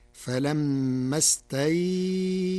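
"استيئسوا" with the ya lengthened to a medium four counts; Warsh reading. Shown as a demonstration. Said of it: "فتصير".

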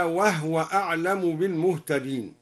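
"وهو" said wahwa, h without vowel; al-Duri reading. Shown as a demonstration. Teacher adding a like example, "وهو" pronounced wahwa. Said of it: "وكذلك قوله تعالى".

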